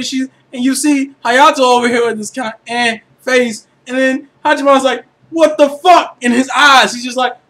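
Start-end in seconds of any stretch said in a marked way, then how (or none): 5.3-6.2 loud, higher-pitched imitation of a stunned look; incredulous mock outburst; mock disbelief. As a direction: voice a character's silent outrage, exaggerated. Voicing character's shocked look.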